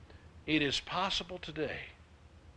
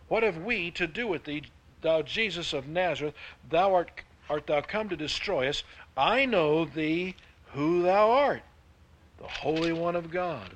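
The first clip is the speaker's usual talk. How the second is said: demon crying out; 4 semitones higher, 6 dB louder than usual. A narrator's reading. Preacher reading the demon's words to the congregation, higher and louder. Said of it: "and he cried out".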